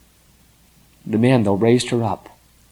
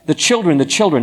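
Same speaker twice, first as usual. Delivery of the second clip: moaning; 5 semitones higher than usual. A narrator's reading. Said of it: "began to moan and groan".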